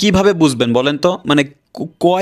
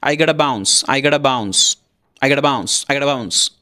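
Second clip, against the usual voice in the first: "I gotta bounce" run together as one word; very quick; 3 semitones lower, much slower than usual. Shown as a demonstration. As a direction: rattle off "I gotta bounce", with "gotta" as "gada". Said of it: "দ্রুত বলবে, অনেক দ্রুত বলবে". (খুব দ্রুত একটানে I gotta bounce)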